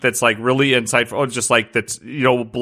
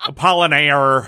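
Midwest accent; 2 semitones higher, slower than usual. Shown as a demonstration. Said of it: "get your Midwest on there with that name".

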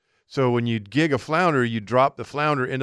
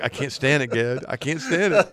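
laughing excitement. Retold or imitated. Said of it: "I was like".

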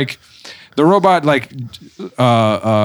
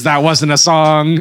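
robot voice; slower than usual. Retold or imitated. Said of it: "the robot says".

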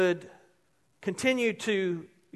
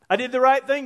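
retold anger; 3 semitones higher, 4 dB louder than usual. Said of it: "I got angry".

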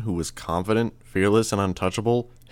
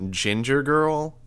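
arch, slow, pitched higher; drawn out with a raised eyebrow in the voice; archly; 7 semitones higher, much slower than usual. A narrator's reading. Sierra questioning the nickname, arch and slow.

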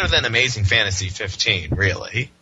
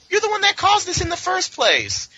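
high hammed-up accusation; mock outrage. Mocking Peter blaming the Jackal, high mock outrage. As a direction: throw the blame back in a squeal. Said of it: "Then he's like".

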